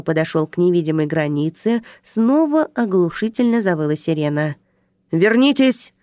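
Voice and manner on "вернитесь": громкий высокий вскрик; крикни в испуге; вскрикнул. Acted. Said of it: "вскрикнул охранник". (охранник вскрикивает под вой сирены)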